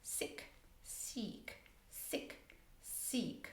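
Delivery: whispered "sick" short, "seek" long; short vs long vowel. Shown as a demonstration. Teacher whispers the sick and seek pair. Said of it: "sick instead of seek".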